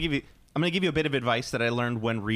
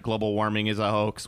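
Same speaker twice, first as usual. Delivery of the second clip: mock shout; 4 semitones lower than usual. Mocking contradictory person.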